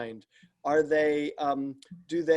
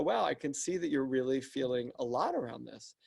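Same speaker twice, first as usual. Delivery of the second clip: softer, slowed-down reassuring reply; gentle empathy; 3 semitones lower, 6 dB quieter than usual. Shown as a demonstration. Leader answering an upset employee, softly reassuring. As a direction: meet them gently where they are. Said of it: "if I could slow down a minute and go".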